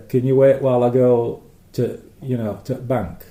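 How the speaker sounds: Yorkshire accent with dropped sounds. Shown as a demonstration. Speaker showing callers software can't understand, Yorkshire accent. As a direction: give an example in broad Yorkshire. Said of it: "in Yorkshire, you get a lot of, uh, H's missing off words".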